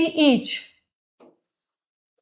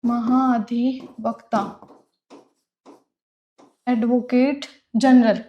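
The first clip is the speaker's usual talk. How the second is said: "महाधिवक्ता" drawn out slowly, syllable by syllable; slow dictation pace; 3 semitones lower, 3 dB quieter, slower than usual. Shown as a demonstration. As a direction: spell out महाधिवक्ता slowly for students. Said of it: "ये हो गया अपना महाधिवक्ता". (धीमे-धीमे बोलकर लिखवाना)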